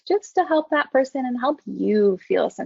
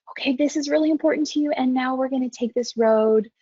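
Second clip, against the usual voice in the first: slowing down. Shown as a demonstration. Counsellor steering a distressed person back down to safety. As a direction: ease them from urgent to calm. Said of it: "you could hear my tone and my pitch and my pace slowing down".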